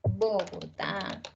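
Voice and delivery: "Bogotá" drawn out slowly, landing on the last syllable; stress on final syllable. Shown as a demonstration. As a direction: say "Bogotá" slow and low, stretching the final TÁ. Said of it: "Tienen el acento en la última sílaba". ("Bogotá" lento, alargando la última sílaba)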